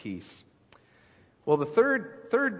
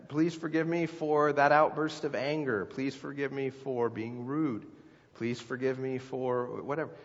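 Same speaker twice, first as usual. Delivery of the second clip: sincere apology; 4 dB quieter than usual. Shown as a demonstration. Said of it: "label your sin with the biblical label".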